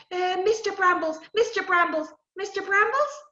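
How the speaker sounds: anxious call; calling the sprite. Acted. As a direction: summon him urgently. Calling three times.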